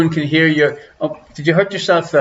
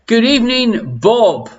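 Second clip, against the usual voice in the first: sing-song greeting; 7 semitones higher, slower than usual. Acted.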